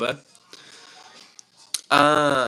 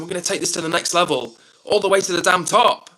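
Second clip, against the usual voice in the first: hyped up; 3 semitones higher, 4 dB louder than usual. Real, not acted. Streamer hyping up channel goals.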